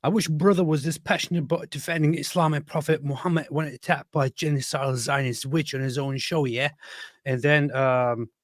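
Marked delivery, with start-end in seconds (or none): 0.0-6.7 higher-pitched put-on accent for a quote; mildly accented imitation, lifted in pitch; Dilly Hussein. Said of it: "Dilly Hussein said".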